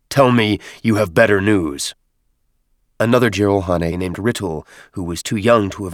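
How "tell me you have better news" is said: gruff demand. Acted. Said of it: "Maccabeus barked".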